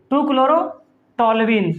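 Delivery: "टू chlorotoluene" drawn out very slowly; slow drilled name. Shown as a demonstration. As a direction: pace "टू chlorotoluene" out for the class to copy. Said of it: "teacher drills the name".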